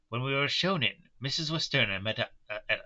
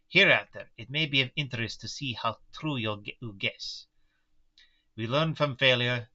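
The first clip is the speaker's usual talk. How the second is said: put-on light German-Russian mixed accent; old Dutch professor, lightly accented; Van Helsing accent. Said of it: "the accent I picked for Van Helsing".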